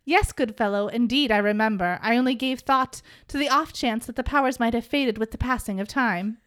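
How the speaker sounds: a hint of an old-fashioned gentleman; lightly voiced archaic speech; old dude voice. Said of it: "we're gonna do this in old dude".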